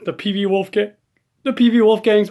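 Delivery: talking through hiccups; speech broken by hiccups. Real, not acted. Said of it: "Excuse me, I have the hiccups".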